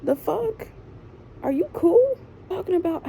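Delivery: indignant. Real, not acted. Outraged at mom's lecture.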